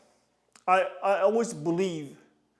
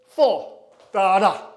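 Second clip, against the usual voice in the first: calling out; 9 dB louder, slower than usual. Shown as a demonstration. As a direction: drive the count out loud. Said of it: "coach calls counts loudly".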